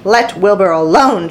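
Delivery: stern, sharp rebuke. Acted. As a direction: snap it at the lamb. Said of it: "she spoke sharply to the lamb".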